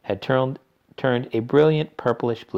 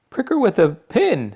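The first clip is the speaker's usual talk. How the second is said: urgent father voice; 12 semitones higher, 7 dB louder than usual. A narrator's reading. Another father suggests.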